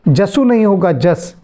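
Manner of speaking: जसु said as जस without the final u; final vowel of जसु cut off, just जस; dropping the short u. Shown as a demonstration. Teacher corrects a chanted verse, pronunciation demo. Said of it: "ह्रस्व उ और ह्रस्व ई की मात्रा का उच्चारण नहीं होता".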